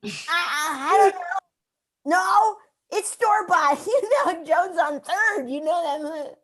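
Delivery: nervous. Acted. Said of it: "shaking from nerves".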